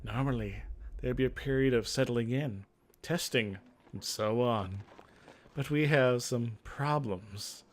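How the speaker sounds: a hint of a weary mage leader; Miranda voice. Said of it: "What's a good voice for Miranda".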